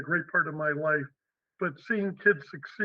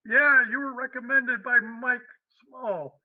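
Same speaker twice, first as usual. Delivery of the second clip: slow, higher, louder imitation of a gruff New York boss with a heavy New York accent; 6 semitones higher, 4 dB louder, slower than usual. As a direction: play a cigar-chomping New Yorker with a thick New York accent. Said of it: "with a real heavy New York accent".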